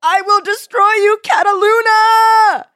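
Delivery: high, loud, slow battle cry; triumphant shout. Acted. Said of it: "William's voice grew louder".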